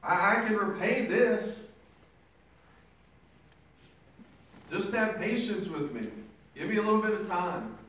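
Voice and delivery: a servant being choked, pleading frantically for time; pleading slave. Acted. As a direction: beg the man choking you to stop. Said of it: "He says".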